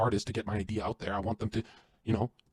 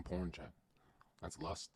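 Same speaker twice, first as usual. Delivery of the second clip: whispered; 5 semitones lower, 14 dB quieter, slower than usual. Real, not acted. Hissed judgement.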